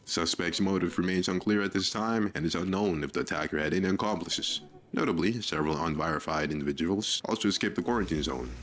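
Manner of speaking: formal news anchor delivery; news read. Acted. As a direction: announce it like a news bulletin. Reads game's news bulletin.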